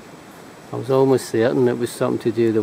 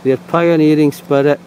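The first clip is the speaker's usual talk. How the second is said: reading aloud; 3 dB louder than usual. Shown as a demonstration. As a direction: read it out like an inscription. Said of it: "Okay, I'll read it".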